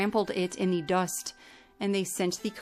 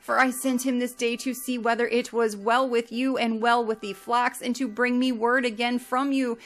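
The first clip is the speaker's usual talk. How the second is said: grieving lament; 3 semitones higher than usual. Acted. Yaakov lamenting Yosef before his sons, grieving lament. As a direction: mourn aloud, voice strained with loss. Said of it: "he cried out with a loud voice".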